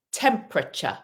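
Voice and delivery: "Temperature" said as TEM-pruh-chuh, middle E dropped; three-syllable temperature. Shown as a demonstration. Teacher modelling "Temperature" for the class, carefully. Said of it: "So it's like this".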